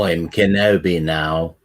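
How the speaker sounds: slow, put-on Kenobi voice; a hint of old Jedi; Obi-Wan voice. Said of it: "you should talk like that".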